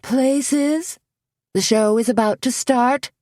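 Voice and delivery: high, urgent backstage call; a high, loud hissed summons; loud stage whisper. Acted. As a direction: hurry the models into line. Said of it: "hissed in a loud stage whisper".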